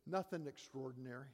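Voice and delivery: a hint of a deadpan kid through a laugh; retold child. Father retelling his son's answer with a light laugh. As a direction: lightly voice his little boy, chuckling. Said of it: "six-year-old self looks up at me and says".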